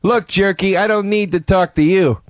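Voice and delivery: lightly put-on pushy prank caller; Jerky Boys. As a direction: brush them off like a phone prankster. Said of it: "I could do the whole call".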